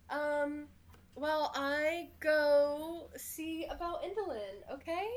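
nervous little goblin, slowed; lightly voiced goblin. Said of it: "He goes".

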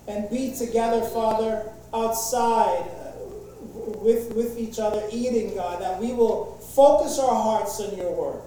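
earnest pastor's prayer. Acted. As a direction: pray over the church, earnest and steady. Opens a prayer.

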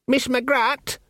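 put-on timid young lad knocking at a door; nervous boy. Sean calling through the door to Magrat, nervous and high.

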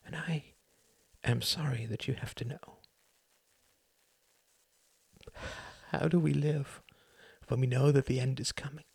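pleading confession. Acted. A son telling his dying mother he knows. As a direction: confess it, voice straining upward.

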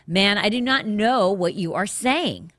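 indignant. Acted. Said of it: "He was indignant".

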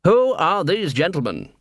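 high, swooping haughty question; imperious demand. A narrator's reading. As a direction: demand it like an offended master. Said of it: "he demanded".

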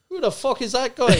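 brash Irish accent, mocking the heckler. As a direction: fire it off in a cocky Irish accent. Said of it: "Great accent".

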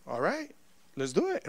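soft, almost under the breath; understated acceptance. Retold or imitated. Student accepting a stranger's help, understated. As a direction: agree quietly, holding it in. Playing it cool at the offer.

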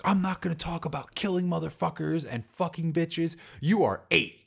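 high, scolding mother, breaking into a laugh; a mother laying down the law, cracking up; scolding mom. Retold or imitated. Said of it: "she was like".

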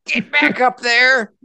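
high, slow, furious barked yell; screaming drill sergeant. Acted. Sergeant major berating terrified recruits, shrill slow yell.

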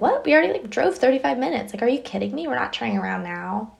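a retold mom, fed up that they would turn around; exasperated mom. Mom objects to turning back.

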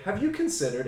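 put-on Asian accent. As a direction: imitate the ad's accent. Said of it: "this is obviously in an Asian accent".

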